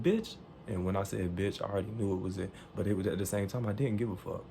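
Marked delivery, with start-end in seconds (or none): 0.0-0.4 one word pitched way up, incredulous; heartfelt insult. Retold or imitated. Customer answering the clerk's threat, heartfelt insult. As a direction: toss out the insult high, meaning it. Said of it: "I meant it with all my soul".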